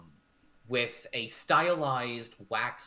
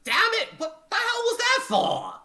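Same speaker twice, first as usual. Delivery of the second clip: very high, loud indignant yell; angry outburst; 11 dB louder than usual. Acted. Shoved maid cursing at her mistress, high furious shout. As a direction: shriek it in outrage. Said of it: "and you hear, it's like".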